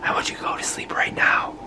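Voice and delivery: stern parent whisper yelling; forceful whispered command. Pretend. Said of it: "whisper yell".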